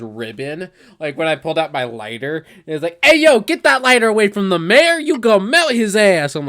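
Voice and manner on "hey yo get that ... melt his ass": louder, higher mock scolding; retold yell, raised and forceful; imitated shouted warning. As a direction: bark it out like an urgent warning. Acting out Ribbon's startling warning.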